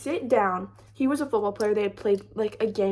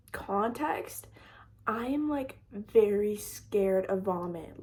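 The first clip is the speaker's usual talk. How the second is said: whispered aside; 3 semitones lower, 5 dB quieter, slower than usual. Real, not acted.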